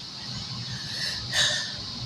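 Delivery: heavy breathless sigh; gasping for air. Real, not acted. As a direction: catch your breath with a sigh. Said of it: "I'm a little out of breath".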